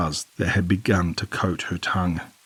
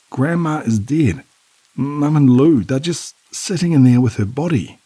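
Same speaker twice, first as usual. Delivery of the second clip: hysterical; 7 semitones higher, 5 dB louder than usual. A narrator's reading. Panicked daughter tells father.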